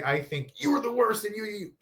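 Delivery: mock accusing. Shown as a demonstration. Coach showing the wrong way to talk, mock accusing. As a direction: play the bad example, pouting. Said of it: "you don't say".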